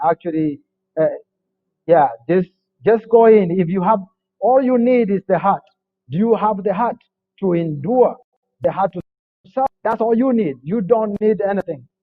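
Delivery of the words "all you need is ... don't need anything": ordinary delivery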